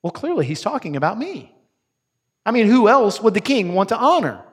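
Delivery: vain, self-satisfied inner boast; smug Haman. Acted. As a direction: preen as if the honor is surely yours. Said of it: "Haman thinks to himself".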